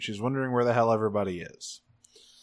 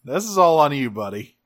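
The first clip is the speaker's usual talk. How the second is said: higher-pitched, emphatic finger-pointing; mock scolding; 4 semitones higher, 3 dB louder than usual. Host tells Optimus it is his fault, mock scolding. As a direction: pin the blame on them, playfully.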